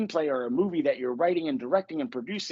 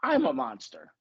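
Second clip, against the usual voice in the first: Grover; 5 semitones higher, slower than usual. Acted. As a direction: badly imitate a puppet's slow realization. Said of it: "That was a horrible Grover voice".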